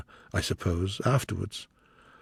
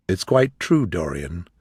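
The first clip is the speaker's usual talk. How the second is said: grave; 7 semitones lower than usual. Acted. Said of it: "said Lord Henry gravely".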